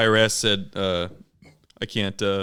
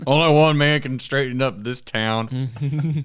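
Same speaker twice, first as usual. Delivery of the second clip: slow, grand lawman announcement; heroic sheriff voice; 4 semitones higher, slower than usual. Pretend. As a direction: hype yourself like a movie sheriff. Campaign for sheriff.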